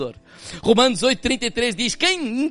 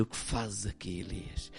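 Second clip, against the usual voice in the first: very soft, low and tender; gentle voice of God; 11 semitones lower, 19 dB quieter than usual. Acted. God speaking gently to Elias, very soft and low. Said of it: "a voz do Senhor que dizia".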